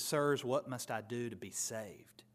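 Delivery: hushed whisper of a desperate jailer; whispered plea. Retold or imitated. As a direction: breathe the question in fear. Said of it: "he says".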